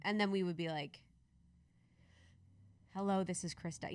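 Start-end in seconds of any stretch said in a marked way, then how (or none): 2.9-3.9 settled, grounded phone introduction; dropped-in voice. Shown as a demonstration. Voice student practising her introduction, gently dropped in. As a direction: let the voice drop in, understated. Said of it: "that kind of drop in".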